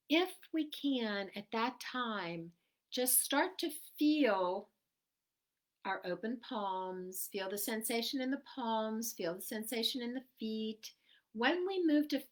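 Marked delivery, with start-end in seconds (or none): 0.1-10.9 calm. Acted. Guided relaxation.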